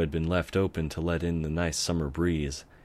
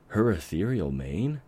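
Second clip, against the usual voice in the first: curious; 2 semitones higher than usual. Acted. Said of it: "Twilight asked curiously".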